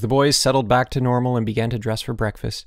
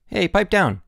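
higher-pitched annoyed call; annoyed cry; 9 semitones higher, 4 dB louder than usual. A narrator's reading. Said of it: "cries of".

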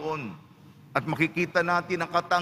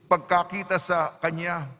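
measured scripture reading with deliberate pauses; Gospel reading. Acted. Priest proclaims the Gospel to the congregation, measured liturgical reading. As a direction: read the Gospel aloud to the congregation, phrase by phrase.

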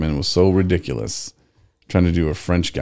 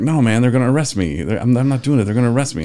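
higher-pitched pleading, lightly imitated; retold nervous protest, pitched up; mock panicked refusal; 6 semitones higher than usual. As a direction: beg off like a worried friend. Retold friend refusing the forfeit.

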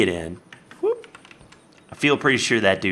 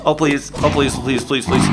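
hammed-up pleading, louder; mock begging; 3 semitones higher, 4 dB louder, faster than usual. Player begging the zombie outside not to come in, hammed-up pleading. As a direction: beg for your life in mock panic.

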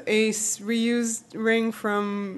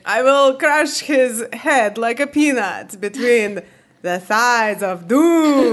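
slow barbarian threat; Zoya the Destroyer voice; 3 dB louder, slower than usual. Acted. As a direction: growl it out slowly like a wrestler. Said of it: "Can you do it in Zoya the Destroyer's voice".

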